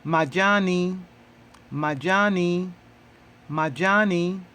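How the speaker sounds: majani drilled three times, every syllable clear; Swahili model word. Shown as a demonstration. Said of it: "How do you say leaves in Swahili?".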